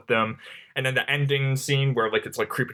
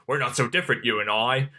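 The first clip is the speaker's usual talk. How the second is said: put-on a light, half-joking Australian accent. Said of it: "that was my Australian accent".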